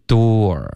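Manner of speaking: DOOR with rounded open-o gliding into r; demonstrated vowel. Shown as a demonstration. Teacher modelling the word for students, careful demo. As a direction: say door slowly and fully, ending on r. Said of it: "然后它的发音就是".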